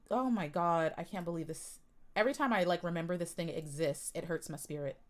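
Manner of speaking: low, soft, pained voice; hurt and deflated, almost breaking; quiet heartbroken disbelief; real hurt. Real, not acted. Upset watching offensive TikTok.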